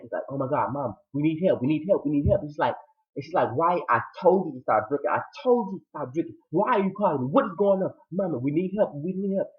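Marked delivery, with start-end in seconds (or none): 0.3-2.4 mild mock panic; retold panic. Son phoning his mother for help, mildly panicked. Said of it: "Wyatt is panicking". 3.6-7.9 a scolding that climbs higher; mock maternal scolding. Mother scolding her son on the phone, exasperated. 8.1-9.5 high, mock-panicked plea; retold panic. Son begging his mother for help, in mock panic. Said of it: "Wyatt is panicking".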